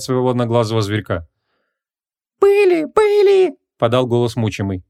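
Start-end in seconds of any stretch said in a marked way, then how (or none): 2.4-3.1 very high, loud squeaky genie; eager genie voice. A narrator's reading. Genie voice held.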